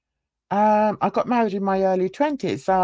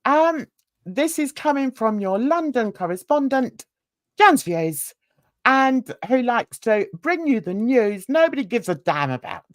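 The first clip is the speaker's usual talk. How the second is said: newsreader voice; 2 semitones higher than usual. Pretend. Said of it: "my newsreader voice".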